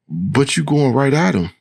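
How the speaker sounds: high-pitched shrill protest; shrill voice pitched well up. A narrator's reading. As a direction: object in a high, shrill character voice. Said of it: "in a high, shrill voice".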